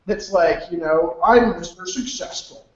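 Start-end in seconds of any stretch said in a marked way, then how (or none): 1.2-2.7 a lightly voiced smug big shot; mock show-off. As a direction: puff up like a fake success. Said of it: "They put on this show".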